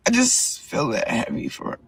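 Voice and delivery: barely voiced, heavy-hearted; whispered confession before the fight; hushed. Real, not acted. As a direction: let it drop to a near whisper. Emotional pre-fight confession.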